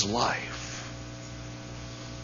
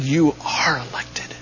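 unvoiced intimate whisper; hushed reassuring whisper; 3 dB quieter than usual. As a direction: lean in and whisper it like a secret. Preacher assures congregation.

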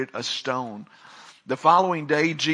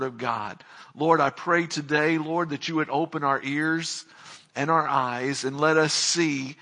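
prayer. Real, not acted. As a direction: pray humbly and sincerely. Pastor prays after reading.

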